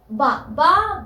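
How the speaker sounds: बा said as a clear voiced ba; demo b sound. Shown as a demonstration. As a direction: sound out बा slowly. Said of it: "इसका beginning sound देता है ब". (साफ़ ब की आवाज़)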